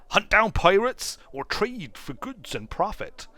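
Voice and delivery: a hint of a rough sailor's voice; lightly voiced first mate. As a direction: play the mate asking his captain for orders. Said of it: "you lost your accent for a moment there".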